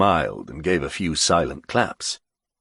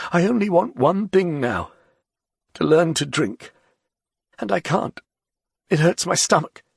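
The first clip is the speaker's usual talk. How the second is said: put-on higher, weary old writer; tired and resigned, giving up; Ger's voice; 10 semitones higher than usual. A narrator's reading.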